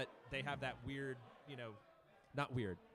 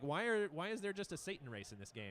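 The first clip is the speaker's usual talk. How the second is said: baffled complaint; 5 semitones higher, 3 dB louder than usual. Retold or imitated. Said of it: "They'd be like".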